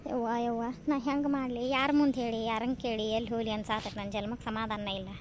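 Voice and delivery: subdued, tearful complaint; tearful lament. Acted. Distressed daughter-in-law vows to take the morning bus, tearful. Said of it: "ಎದಕ್ ಅಳಾಕತ್ತಿದೆ".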